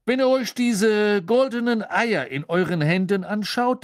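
booming, cheerful official; jovial Bagman. Acted. Bagman greets the champions in the tent, jovial and loud. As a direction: burst in full of good cheer.

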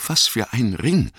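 mildly stammered, in a high Frodo voice; high, startled question with a touch of stammer. Acted. Frightened Frodo questioning Gandalf about the ring, mildly stammering. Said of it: "stammelte er".

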